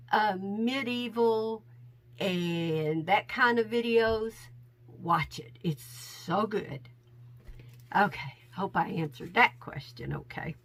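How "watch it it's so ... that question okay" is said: wheezy voice. Real, not acted. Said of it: "My asthma is a little bad, so I got some wheezing".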